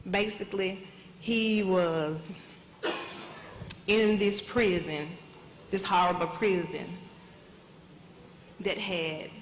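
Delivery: a mother too choked up to go on; breaking down. Real, not acted. Mother telling of son's death in prison, voice fading in real grief. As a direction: voice fading to near silence, overcome with grief. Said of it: "'cause I'm getting emotional".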